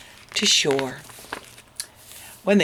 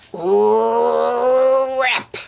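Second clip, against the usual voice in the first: louder, higher sound-word; dramatic rip; 6 semitones higher, 4 dB louder than usual. A narrator's reading. Storyteller acting the costume tearing, louder.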